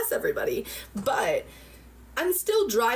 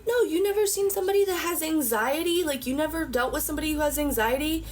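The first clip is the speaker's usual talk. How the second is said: retold tearful outburst; 9 semitones higher than usual. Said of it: "I was crying".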